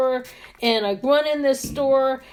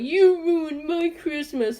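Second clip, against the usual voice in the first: raised pitch, slow drawn-out complaint; mock angry yell; 4 semitones higher, slower than usual. Irate man to a poor salesperson, mock yell. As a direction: imitate an irate customer, stretching every word. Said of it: "he's yelling".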